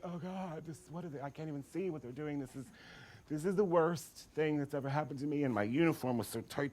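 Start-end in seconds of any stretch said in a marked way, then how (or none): 0.0-5.4 dismayed muttering. Retold or imitated. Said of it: "staring at the little ants over there like".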